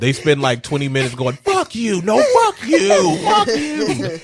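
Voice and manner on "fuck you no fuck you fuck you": mock shouting match. Retold twenty-minute shouting match.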